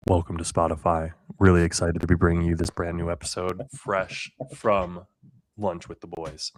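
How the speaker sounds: low, smooth announcer voice; Spotify voice. Pretend. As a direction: play the polished podcast host. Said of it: "had your Spotify voice on".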